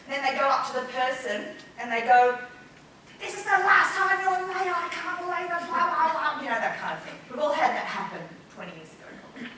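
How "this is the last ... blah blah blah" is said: high, loud mock scolding; acted angry telling-off. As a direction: pretend to blow up at a latecomer. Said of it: "acting really, really, really angry".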